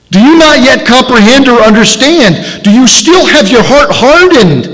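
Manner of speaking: exasperated teacher pleading; impassioned rebuke. Retold or imitated. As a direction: drive each question harder, slowing at the end. Yeshua rebukes the disciples.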